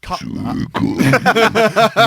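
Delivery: high laughing shout. Real, not acted. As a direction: laugh it out loud. Laughing at the end.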